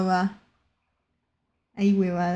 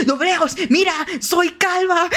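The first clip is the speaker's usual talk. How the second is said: high, eager shout for attention; excited calling out; 6 semitones higher than usual. Real, not acted. Fan showing off to Doble Os, excited calling out. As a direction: call out giddily, pitch climbing.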